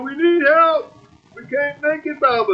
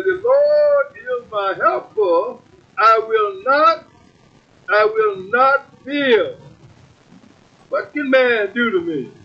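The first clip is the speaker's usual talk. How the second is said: scripture reading. Acted.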